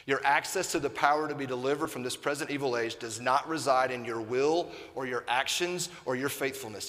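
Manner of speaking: ordinary talk, nothing marked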